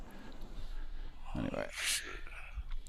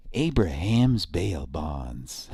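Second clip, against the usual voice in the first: slow drawn-out ad read; commercial announcer voice; much slower than usual. Retold or imitated. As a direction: stretch it like a local TV ad.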